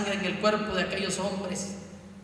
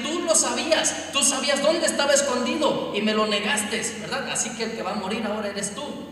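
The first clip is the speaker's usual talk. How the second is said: furious king; 7 semitones higher, 6 dB louder than usual. Acted. Servant voices the furious king.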